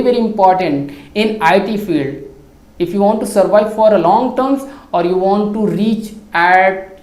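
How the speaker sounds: slow, deliberate English delivery; careful English speech. Acted. Vlogger practising English for viewers, slow and deliberate. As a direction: lay out each English word slowly.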